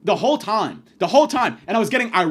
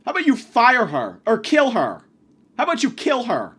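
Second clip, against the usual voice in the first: angry demand; 4 semitones higher, 4 dB louder than usual. Retold or imitated. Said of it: "And I go".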